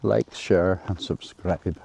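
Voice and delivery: slow, deliberate stock YouTuber outro; YouTuber sign-off. Retold or imitated. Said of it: "I think that's what they usually say".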